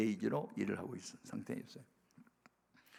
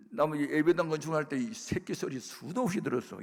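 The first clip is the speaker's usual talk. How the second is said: ordinary talk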